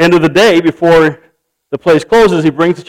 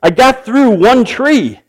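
a lightly played worn-out complaint; frustrated complaint; 6 semitones higher than usual. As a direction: grumble that the saw failed him. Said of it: "He's like".

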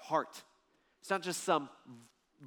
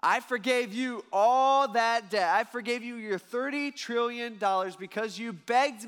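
angry master; 5 semitones higher, 5 dB louder, slower than usual. Acted. Master rebukes the servant.

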